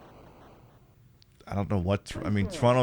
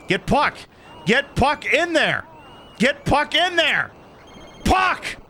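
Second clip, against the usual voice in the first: slow pleading that climbs much higher to a squeal on puck; rising frantic plea; 10 semitones higher, slower than usual. Real, not acted. Gamer begging his hockey player to score, climbing to a squeal.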